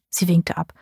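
ordinary delivery, nothing marked

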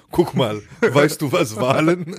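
mock patronising explanation; condescending. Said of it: "Als würdest du mit so einem Behinderten reden". (herablassend nachgemacht, wie mit einem Kind)

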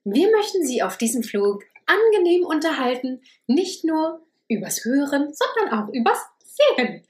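flight attendant. Pretend. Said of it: "ich mach die Stewardess".

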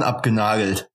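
shrieking laugh, then the word squeaked out. Real, not acted. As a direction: burst out laughing. Bursts out laughing. (lachend, quietschend)

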